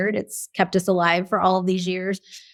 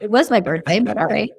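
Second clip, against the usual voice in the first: deflated. Retold or imitated. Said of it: "left there going".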